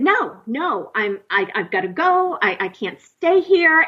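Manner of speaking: mildly panicked, insistent pleading; panicked refusal. Retold or imitated. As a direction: plead to get out, pitch climbing. Retelling her pleas to leave.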